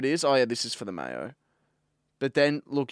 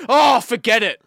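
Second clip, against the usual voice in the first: loud, exasperated and high; annoyed brush-off; 10 semitones higher, 12 dB louder than usual. Retold or imitated. Bloke in the shop giving up on the shelf stacker, loud exasperated huff. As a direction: throw it away like you've had enough. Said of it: "the bloke goes like this".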